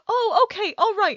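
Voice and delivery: lightly voiced agreeable stranger; imitating the homeless man. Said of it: "And he was like".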